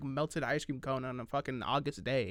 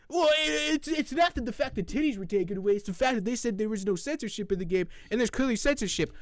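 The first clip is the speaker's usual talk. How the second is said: mock whiny; 7 semitones higher, 4 dB louder than usual. Mocking the critic's defense.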